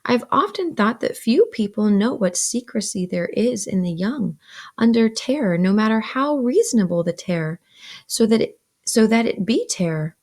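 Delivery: expressive, measured read-aloud; story narration. A narrator's reading. Older Pip recounts going upstairs to bed, narrating. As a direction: read the novel with animated emphasis.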